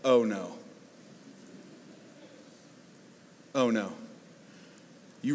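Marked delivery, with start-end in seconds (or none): 0.0-3.9 dawning dismay. Pretend. Sudden realisation of own fault.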